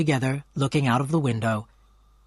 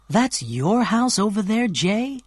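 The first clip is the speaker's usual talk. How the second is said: excited cry; 7 semitones higher, slower than usual. A narrator's reading. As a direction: gasp it out like a delighted girl. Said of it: "she cried excitedly".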